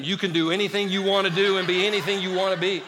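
parent quote said through a laugh; mock the parents, chuckling; mild mocking parent voice. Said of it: "Their parents told them".

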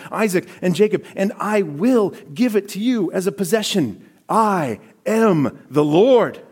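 rising from plain to high, ringing proclamation; swelling preacher's cry of God's promise; building proclamation. Acted. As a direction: build the promise to a triumphant peak.

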